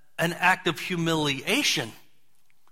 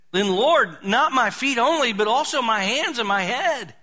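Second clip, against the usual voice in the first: eager Peter; 5 semitones higher than usual. Retold or imitated. Peter eagerly over-asking.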